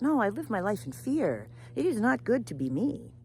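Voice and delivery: anxious complaint. Acted. Parrot tells raven of caging fears, worried complaint. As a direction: pour out the worry, building to the end.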